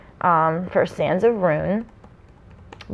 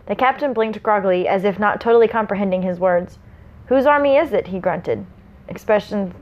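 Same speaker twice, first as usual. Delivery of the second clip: measured storyteller's read; story narration. A narrator's reading. Reading the prologue to listeners, story narration. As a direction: read it out with mild dramatic weight.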